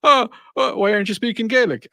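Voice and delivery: high mock questioning voice; challenging salesman. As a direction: imitate a clueless salesman piping up. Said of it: "And he's like".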